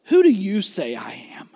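soft, near-whispered question; hushed question. Acted. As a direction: ask it intimately, almost whispering. Jesus' direct question, voiced softly.

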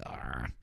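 low, soft growl; mock grumble. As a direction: imitate a disgruntled groan under the talk. Imitates Steve's grumble.

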